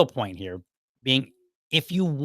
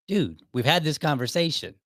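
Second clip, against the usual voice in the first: mildly exasperated, higher-pitched retelling; getting upset; 4 semitones higher than usual. Retold or imitated. Employee tired of the same talk with his boss, mildly upset. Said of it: "so now I'm getting upset".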